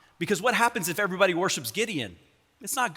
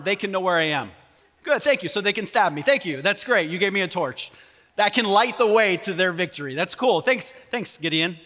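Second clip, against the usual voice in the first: sarcastic thanks. Pretend. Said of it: "I'm a sarcastic individual".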